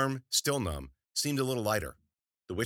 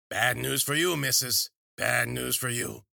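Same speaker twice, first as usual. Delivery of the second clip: ominous witch; 5 semitones higher, 5 dB louder, slower than usual. A narrator's reading. Witch warning Wheeler.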